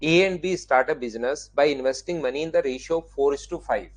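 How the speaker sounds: reads the English question word by word, slowly; slow, deliberate reading aloud of the question; slow careful reading. Shown as a demonstration. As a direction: spell out the problem slowly for the class. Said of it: "अब ये language में लिखा हुआ है".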